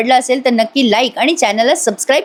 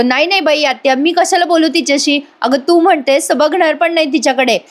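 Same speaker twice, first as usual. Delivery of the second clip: higher-pitched pleading excuse; protesting denial; 5 semitones higher than usual. Retold or imitated. Yash assuring his aunt he ignores her daughter, protesting. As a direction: plead innocence in an acted voice.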